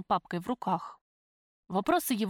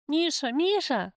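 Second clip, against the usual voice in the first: high, drawn-out anguished cries; screaming; 7 semitones higher, 5 dB louder, slower than usual. A narrator's reading. Prisoner screams as police tear her from her lover, anguished. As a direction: wail the name slowly and high. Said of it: "заходилась я в крике".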